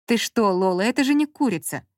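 ordinary delivery, nothing marked

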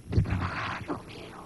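a tipsy dad mumbling an excuse in a whisper; a drunk father coming home with his tie askew, whispering an excuse to his son. Retold or imitated.

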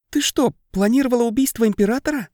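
high, fast astonished question; surprised. A narrator's reading. Lirda asks the planner, shocked and fast-paced. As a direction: gasp it out in disbelief. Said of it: "удивлённо спросила Лирда".

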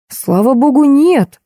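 high, rising exclamation of relief; narrated cry of "thank God"; exclaiming. A narrator's reading. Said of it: "воскликнул ректор".

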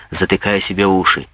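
ordinary delivery, nothing marked

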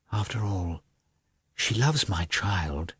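a hushed private thought; husband despairing quietly to himself; inner thought. A narrator's reading.

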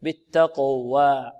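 بالتقوى slow and careful; modelled word. Shown as a demonstration. Teacher modelling the word for students. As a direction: recite the word slowly. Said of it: "مرققة".

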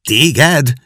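startled high cry of disbelief. A narrator's reading. Prince dropping his role, crying out in surprise. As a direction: Tom cries out in shocked surprise. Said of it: "kiáltott fel Tom".

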